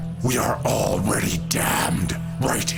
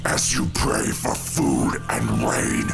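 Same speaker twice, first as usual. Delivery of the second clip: raised-pitch, impassioned denunciation; angry tirade; 4 semitones higher than usual. Acted. Grieving father denouncing the gods to his people, angry tirade. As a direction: hurl it at the believers, voice pitched up.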